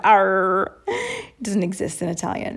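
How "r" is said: long, hard American R; harsh English R. Shown as a demonstration. Guest demonstrating the sound Italian lacks, harsh R. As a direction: hold the R out harshly. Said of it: "because that sound".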